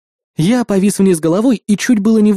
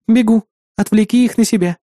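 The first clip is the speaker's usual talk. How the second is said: lightly voiced, higher-pitched ally; ally's quick reply; 4 semitones higher than usual. Ally replies to hero's summons, higher-pitched urgent voice. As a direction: answer briskly and give the order.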